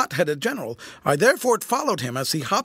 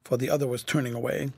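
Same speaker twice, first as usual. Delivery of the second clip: plain reading voice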